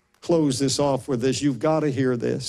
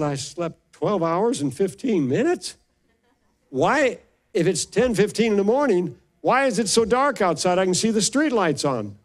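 tone 1; 6 semitones higher than usual. Retold or imitated. Waking confused about the time.

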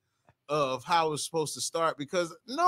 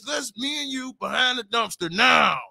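hammed-up wrestling promo delivery; wrestler; 4 semitones higher than usual. Comic retelling a woman's come-on, hammed-up wrestler. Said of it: "You sound like a wrestler".

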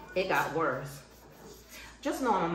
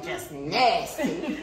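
disgusted; 3 semitones lower, much slower than usual. Retold or imitated. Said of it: "Like she telling somebody".

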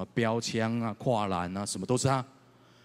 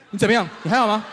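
mock concern; 11 semitones higher, 9 dB louder, faster than usual. Boy's question, voiced mockingly.

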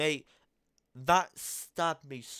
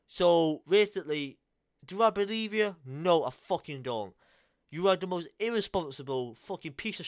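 raised, furious answer; real anger, louder; loud angry retort; 2 semitones higher, 5 dB louder than usual. Real, not acted. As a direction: bark the no at her. Furious answer to her claim.

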